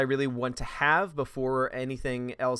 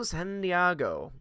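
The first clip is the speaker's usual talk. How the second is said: Ron Burgundy line; 3 semitones higher, slower than usual. Retold or imitated. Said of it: "what Ron Burgundy has to say".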